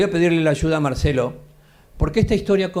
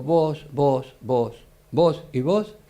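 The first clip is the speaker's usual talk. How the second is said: commanding officer; much slower than usual. Retold or imitated.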